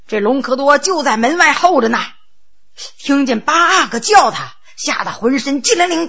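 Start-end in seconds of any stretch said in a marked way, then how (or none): none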